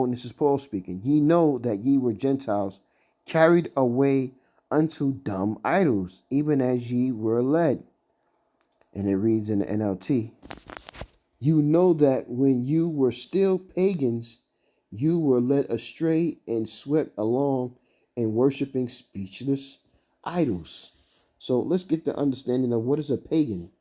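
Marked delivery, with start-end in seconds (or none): 1.0-7.8 scripture reading. Acted. Preacher reading Paul's words to listeners, scripture reading. Reads King James verse aloud. 11.4-20.9 slow, deliberate verse reading; scripture reading. Acted. Preacher reading the NLT version to listeners, scripture reading.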